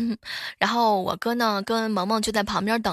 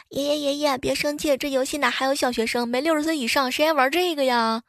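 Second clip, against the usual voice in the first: put-on helpless young man; 4 semitones higher than usual. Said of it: "一脸无奈地说道".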